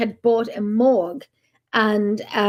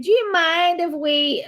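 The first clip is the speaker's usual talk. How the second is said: bad American accent; 6 semitones higher, slower than usual. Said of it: "doing a bad American accent".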